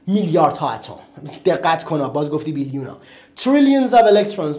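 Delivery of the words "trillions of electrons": Trillions of electrons slow and louder; slow, louder English model. Shown as a demonstration. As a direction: project the phrase slowly. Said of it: "برو". (آرام و بلندتر)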